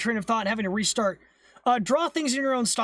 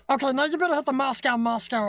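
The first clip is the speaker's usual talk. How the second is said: alien voice; 3 semitones higher than usual. Real, not acted. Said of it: "you can have the alien voice for one minute".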